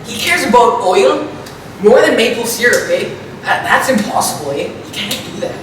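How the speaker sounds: put-on Canadian accent with tacked-on "eh"; hammed-up Canadian accent. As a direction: play a caricature Canadian, "eh" after every thought. Parody Canadian talk, eh everywhere.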